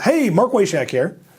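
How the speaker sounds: loud, high-energy voice. Demonstrating how a prospect answers the phone, with a loud, high-energy phone greeting. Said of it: "raise your voice to that level".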